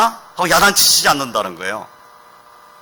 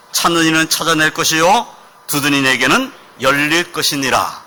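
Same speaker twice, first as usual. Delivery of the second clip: group scripture reading; 3 dB louder than usual. Shown as a demonstration. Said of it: "다 같이 읽어보겠습니다".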